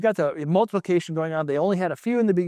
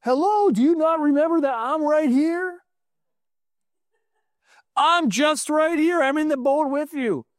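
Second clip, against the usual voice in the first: gentle Jesus; 6 semitones higher than usual. Acted. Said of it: "he's saying".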